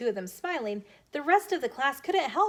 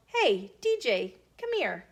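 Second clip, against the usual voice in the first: calling out. Acted.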